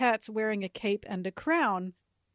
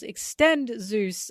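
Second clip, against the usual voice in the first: mock yell; 5 dB louder, much slower than usual. Nami commanding Zeus as she is chased, mock yell. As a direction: yell it like an attack order. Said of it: "and she yells".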